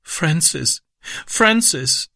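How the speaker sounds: put-on high, tearful little-girl cry; narrated child in tears; sobbing. A narrator's reading. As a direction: plead his name through acted sobs. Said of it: "schluchzte sie".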